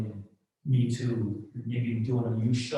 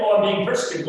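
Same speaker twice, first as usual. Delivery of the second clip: a mocking, self-pitying whine, pitched up and louder; mock whiny complaint; 6 semitones higher, 7 dB louder, faster than usual. Mimicking church people who cry persecution, in a mocking whine. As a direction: poke fun at a pious martyr.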